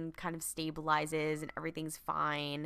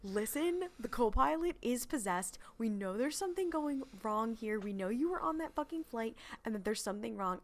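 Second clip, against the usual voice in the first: earnest Dean plea; 5 semitones higher than usual. Retold or imitated. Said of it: "And he's like".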